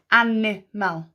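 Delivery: "animal" broken into measured syllables; "animal" slowly, each part distinct. Shown as a demonstration. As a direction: sound out "animal" for spelling. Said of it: "Slow it down".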